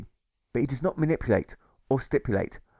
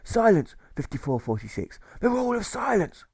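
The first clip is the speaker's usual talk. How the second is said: angry pirate jailer snorting silence; 10 semitones higher than usual. Acted. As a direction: snort the rule out like a strict jailer. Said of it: "the jailer snorts and contorts".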